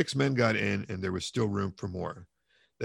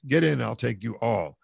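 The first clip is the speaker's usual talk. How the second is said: a firm, somewhat louder call; shouted; 4 dB louder than usual. Acted. Mikolka urging the crowd into his cart, shouting. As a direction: call it out once more, insisting. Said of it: "Mikolka shouted again".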